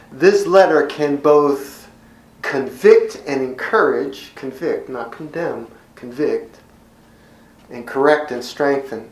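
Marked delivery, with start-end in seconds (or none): 4.4-4.9 convict set apart, said slowly and deliberately; emphasis on convict. Real, not acted. Preacher stressing convict to his congregation, deliberate. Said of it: "I emphasize the word convict". 6.0-6.6 convict set apart, said slowly and deliberately; emphasis on convict. Real, not acted. Preacher stressing convict to his congregation, deliberate. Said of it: "I emphasize the word convict".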